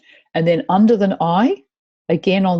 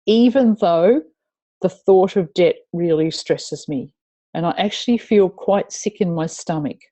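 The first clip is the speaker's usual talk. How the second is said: setup statement demo. Shown as a demonstration. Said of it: "we're going to say".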